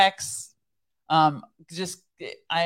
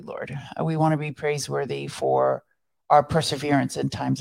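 prayer; 3 semitones lower, 4 dB louder than usual. Real, not acted. Co-host ending the show in prayer, prayerful. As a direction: address God in thanks, unhurried.

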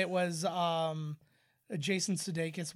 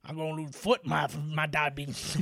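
lightly garbled character voice; Wilford Brimley; 3 dB louder than usual. Retold or imitated. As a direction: mumble it as a comic impression. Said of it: "but it's unintelligible".

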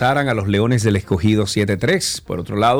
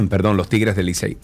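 clearing a choked throat; talking just after choking; choking on a drink. Real, not acted. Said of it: "Ay, me ahogué".

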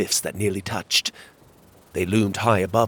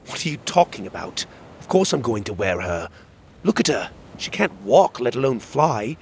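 put-on higher, protesting young character; indignant; 3 semitones higher than usual. Arguing with Magborn over carrying Em, indignant. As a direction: object heatedly, pitch jumping up. Narrator's character angrily objects.

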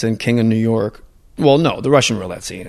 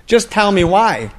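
slow, higher, louder insistence; Walken repeating; 9 semitones higher, 5 dB louder, slower than usual. Retold or imitated. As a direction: drag it out, ignoring the answer. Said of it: "he ignores his answer".

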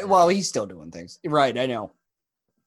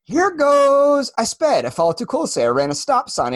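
rising, louder rushed confession building to a shout; frantic confession; 6 semitones higher, 4 dB louder than usual. Retold or imitated. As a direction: blurt out every traffic offense, climbing to a yell. Quoting Liar Liar courtroom confession.

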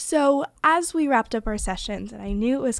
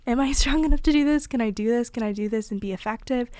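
anxious self-doubt; 4 dB louder, faster than usual. Retold or imitated. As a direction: imitate your own worried inner questioning. Voicing own anxious self-doubt.

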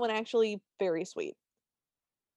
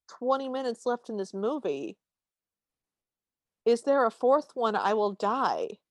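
mock panic. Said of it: "in my head, I went".

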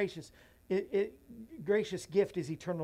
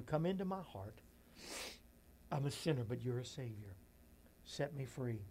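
prayer. Acted. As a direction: lead the sinner's prayer gently. Leading sinner's prayer.

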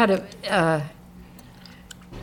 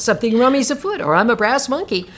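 plummy upper-class English, much higher, hearty; posh English accent; 6 semitones higher than usual. Acted. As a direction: read it like a jolly English gentlewoman. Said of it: "he throws in little things like the".

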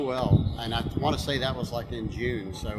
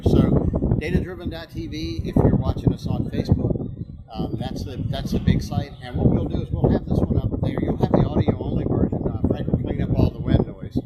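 shouting over wind; 5 dB louder than usual. Real, not acted. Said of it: "Sorry about the wind noise".

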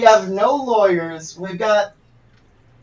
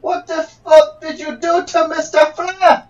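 hammy fake Nigerian accent; a put-on Nigerian lawyer voice; 3 semitones higher than usual. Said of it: "this is not a Nigerian accent".

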